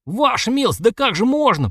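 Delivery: very high, squealed protest; almost squealing. A narrator's reading. Organiser protesting to his lordship, almost squealing. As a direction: push it up nearly to a squeal. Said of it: "почти завизжал капитан".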